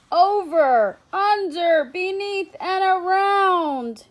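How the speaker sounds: loud, rising, breathless chase; excited chase. A narrator's reading. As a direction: belt out each step of the chase. Chase scene, rhythmic climax.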